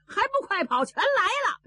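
high, loud urgent call to run; urgent warning shout. A narrator's reading. Li Er warns Zhao Bi they are coming, loud urgent shout. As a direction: yell a warning down the street.

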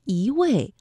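"一" rising as yí before 位; 一 in second tone. Shown as a demonstration. Teacher gives learners an example, "一" rising yí. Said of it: "这个一在这里读一".

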